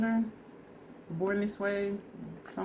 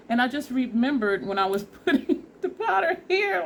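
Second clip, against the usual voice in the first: laughing; 6 semitones higher, 5 dB louder than usual. Real, not acted. Laughs while remembering.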